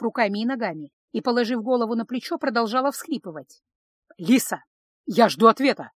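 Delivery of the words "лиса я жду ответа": louder, commanding call to his sister; angry demand. Acted. Ravshan demanding an answer from Lisa, loud and angry. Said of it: "разгневанный Равшан".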